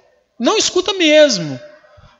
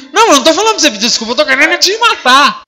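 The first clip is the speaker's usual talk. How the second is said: fast, heated mock outburst; wife snapping back at husband's apology, fast and heated; acted quarrel; 4 semitones higher, 4 dB louder, faster than usual. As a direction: rattle it off in a half-joking fury.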